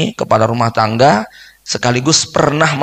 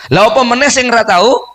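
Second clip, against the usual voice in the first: exclaiming; 8 semitones higher than usual. Acted. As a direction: toss it out like an incredulous aside. Rhetorical jab in Javanese.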